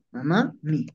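"mamá mi" with the second a held; "mamá mi" said as mamaa-mi; stretched A. Shown as a demonstration. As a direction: lengthen the end of "mamá" before "mi". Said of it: "estiro la A".

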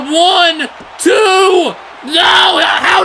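high loud count then disbelieving cry; real live excitement; frantic count. Real, not acted. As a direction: yell the count, then erupt.

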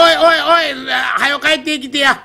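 shouting after someone, half laughing; calling out. Acted. Bearer calls after partner.

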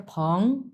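"ফং" stretched slowly in second tone. Shown as a demonstration. Teacher joins the sounds into one syllable, second tone. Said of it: "এটা দুই number tone".

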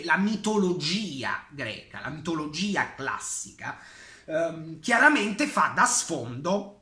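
talking through hiccups; hiccuping between phrases. Real, not acted. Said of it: "vi chiedo scusa per il singhiozzo".

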